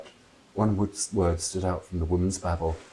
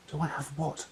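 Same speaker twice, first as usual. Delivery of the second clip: baffled; 8 semitones higher, 9 dB quieter than usual. Acted.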